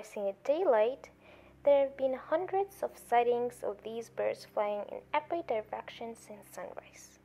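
a measured broadcaster's news voice; evening news read. Acted. Newsreader closing the bulletin with owl news, steady news read.

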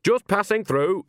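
high, drawn-out sharp remark; sharp and high, taking time over it. A narrator's reading. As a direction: say it sharply, pitched well up. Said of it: "she said sharply".

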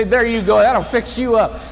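cheerful serve-up. Retold or imitated. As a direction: hand it over with a big grin. Steve handing over the plate.

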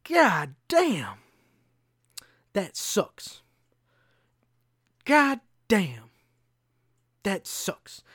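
high loud God damn, deflated That sucks; looping groan of dismay. Retold or imitated. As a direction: repeat the lament like a tic. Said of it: "it kicked back in like Tourette's".

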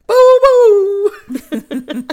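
high laughing mock boo. Real, not acted. Cohost booing Tucker's lawyer, laughing and high.

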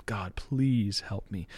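slow, quiet plea to God; begging prayer. Retold or imitated. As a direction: beg softly, drawing out please. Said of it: "like, beg him".

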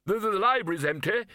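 high, hurried stammered outburst; a mild bellow, tripping over the first word. A narrator's reading. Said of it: "bellowed the Arch-Chancellor".

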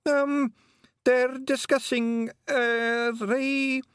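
high, hesitant Scots pixie voice; embarrassed pixie. A narrator's reading. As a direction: squirm out of answering, wee pixie. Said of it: "didn't want to be standing there".

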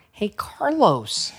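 high, drawn-out bandmate impression; Ricky. Host imitating a bandmate calling to a friend, drawn-out caricature. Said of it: "That is how he sounds".

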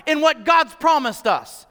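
loud, fired-up youth calling out; David rallying the soldiers, indignant and loud; defiant shout. Retold or imitated. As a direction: slam the bully with bold defiance. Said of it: "What he's saying is".

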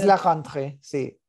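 put-on playful French accent on rentrée. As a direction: say it like a Parisian. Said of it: "te encanta hablar con acento francés".

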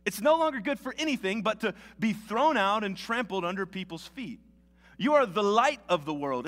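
measured public Bible reading with lifted emphasis; scripture reading. Acted. Preacher reads Matthew five to the congregation, scripture reading. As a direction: read it out to a congregation, phrase by phrase.

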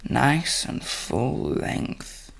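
slow soft whisper; sultry whisper. A narrator's reading. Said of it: "she whispered".

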